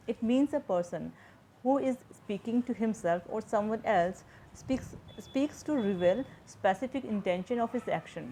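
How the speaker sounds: slow, measured reading of a textbook definition; slow dictation reading. Shown as a demonstration. Teacher to students, reading the definition slowly aloud. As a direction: read each English phrase out slowly, as if for notes.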